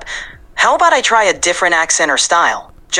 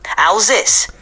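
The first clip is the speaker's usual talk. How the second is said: New York Puerto Rican accent with more Hispanic flavor; 3 semitones higher than usual. Shown as a demonstration. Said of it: "Can you make it more Hispanic?".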